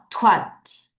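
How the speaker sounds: Twenty with strong TWEN, faint ty; TWEN-ty, ending barely voiced; weak ty. Shown as a demonstration. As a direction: hit TWEN, nearly swallow ty. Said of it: "T를 약하게 읽어요".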